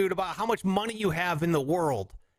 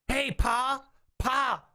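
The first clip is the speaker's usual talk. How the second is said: put-on higher, slow Southern country kid; Southern child; 8 semitones higher, slower than usual. Asking Pa about a wink, Southern boy accent. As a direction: ask Pa in a Southern twang. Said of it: "I have a Southern accent".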